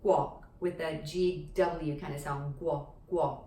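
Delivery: "Guo" with a clear G-W glide at the start; proper G-W pronunciation. Shown as a demonstration. Teacher shows learners the proper form, G-W "Guo". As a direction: say "Guo" carefully with the w sound after g. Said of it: "properly pronounced as the".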